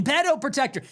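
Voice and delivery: high mock chant of the insult; imitating protesters yelling. Protesters at the ICE protests yell at agents, high mock jeer. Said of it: "and they're yelling".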